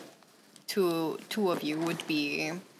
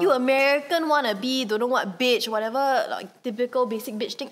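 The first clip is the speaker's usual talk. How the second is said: mock hater voice; 3 semitones higher, 3 dB louder than usual. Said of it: "they blast me for that".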